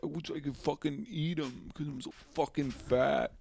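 mocking his friend in a whiny high voice; impression of Alan. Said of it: "I'm you".

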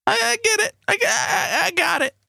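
squawky high bird voice; parrot voice. Acted. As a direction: talk like a parrot. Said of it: "use your parrot voice to tell me that".

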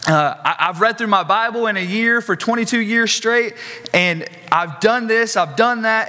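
a hint of a boastful pastor pleading his record; self-justifying pastor. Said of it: "And this man says".

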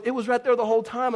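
high, loud retold insistence; mock insistent. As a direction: imitate an exasperated wife insisting. Retells wife insisting in the argument.

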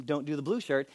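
mock divine instruction. Churchgoer claiming God picks their shirt, hushed mock prompting.

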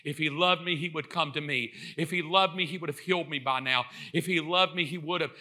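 low, soft moping complaint; acted resigned self-pity; wallowing self-pity. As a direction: mope through it, soft and low. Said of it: "wallow in the sovereignty of God".

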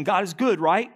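unsure rising question; voicing doubt while still affirming it; asking as a question. Shown as a demonstration. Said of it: "We might be saying it as a question".

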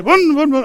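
loud, high motorcycle vroom; imitated engine revving. Teenager revving his brother like a motorcycle, loud engine noise. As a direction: rev it hard like a child playing motorbikes.

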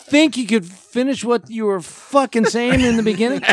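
high, loud, theatrical horror voice; Vincent Price impression. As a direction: ham it up like a horror host. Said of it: "that was the Vincent Price shit".

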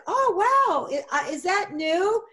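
high, bright mock amazement; put-on delight. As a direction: fake surprise to start a chat. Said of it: "I said".

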